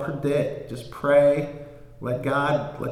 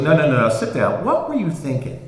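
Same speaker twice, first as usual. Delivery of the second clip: mock scolding mom; 4 semitones higher than usual. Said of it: "chews me out for forty-five minutes".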